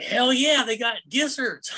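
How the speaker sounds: high, loud, drawn-out cheer; excited whoop. Retold or imitated. Customer thrilled to find gizzards on the menu, whooping. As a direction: crow it with hammed-up glee. Re-enacts joy at finding gizzards.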